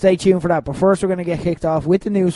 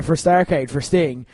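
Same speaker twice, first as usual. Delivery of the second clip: ordinary talk, nothing marked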